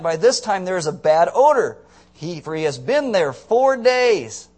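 loud, slow warning about the smell; Martha's warning. Acted. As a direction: drag it out, worried.

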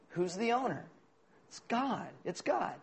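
quiet. Real, not acted. Quiet answer after the joke.

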